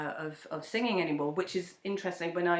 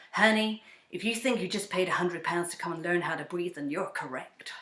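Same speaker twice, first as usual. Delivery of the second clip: a teasing coach who drops to a whisper at the end; bad impression of Dane. Guest imitating her vocal coach teasing her about breathing. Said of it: "I'm gonna do a really bad impression".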